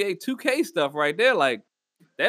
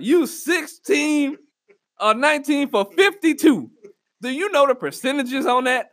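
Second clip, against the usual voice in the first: incredulous shout; 7 semitones higher, 4 dB louder than usual. Real, not acted. Fan shouting at Kyrie's bad shooting. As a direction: yell the stat in disbelief.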